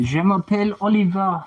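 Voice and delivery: je m'appelle said the French way; French self-introduction. Shown as a demonstration. Telling chat his name in French, with a French accent. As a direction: say je m'appelle Oliver in schoolboy French. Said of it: "That's my name".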